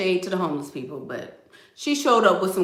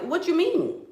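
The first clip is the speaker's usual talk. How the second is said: higher, clueless where-are-they; blank missing girl; 9 semitones higher than usual. Retold or imitated. Missing girl clueless about her kids, mock high. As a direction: play dumb, high. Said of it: "And she like".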